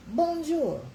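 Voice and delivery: high, loud sing-song bonjour; cheery French greeting. Shown as a demonstration. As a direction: call out a bright hello to Charlene. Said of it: "If you're speaking French".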